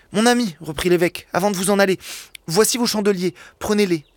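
voix d'évêque un peu plus aiguë, enjouée; évêque bienveillant. Acted. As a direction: accueille le voleur comme un ami. Évêque offre les chandeliers. (l'évêque s'adresse à Jean Valjean, légèrement plus aigu)

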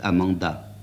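ordinary delivery, nothing marked

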